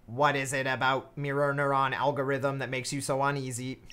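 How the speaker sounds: dumb flat robot voice. Acted. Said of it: "I also use a dumb robot voice for her".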